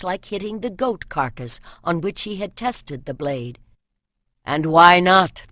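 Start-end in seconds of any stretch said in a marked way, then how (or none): 4.4-5.4 fierce self-question. A narrator's reading. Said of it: "he told himself".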